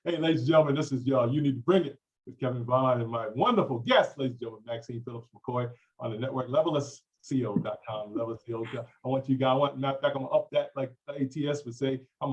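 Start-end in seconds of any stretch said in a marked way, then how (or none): 0.0-8.8 show announcer. Acted. Host welcoming listeners to his network show, announcer voice. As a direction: hype the show like a radio host. Host's radio-style show intro.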